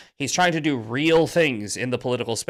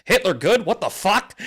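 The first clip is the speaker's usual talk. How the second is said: higher incredulous repeat; mock disbelief, pitched up; imitating Crowder; 4 semitones higher than usual. Retelling host's reaction, pitched up in disbelief. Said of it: "he said it just like that".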